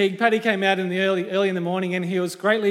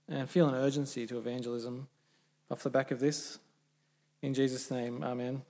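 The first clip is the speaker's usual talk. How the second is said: spoken prayer; 3 semitones lower than usual. Acted.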